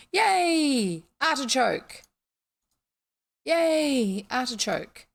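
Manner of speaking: high, loud squeal of joy; excited cheer. Acted. Voicing the happy game character getting the artichoke, an excited squeal. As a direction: cheer like a delighted little creature.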